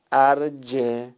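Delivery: ارجه said slowly with a clear final e; teacher drawing out ارجه for the class; slow model reading. Shown as a demonstration. Recitation teacher models the word slowly.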